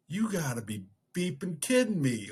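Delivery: loud exasperated blurt; blurted outburst. Retold or imitated. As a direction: blurt it out in disbelief. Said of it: "I didn't mean to say it out loud".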